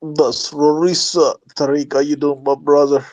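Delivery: caller fakes an East African accent; put-on foreign accent. Prank caller greets the host in a fake East African accent. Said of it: "What's going on with that accent".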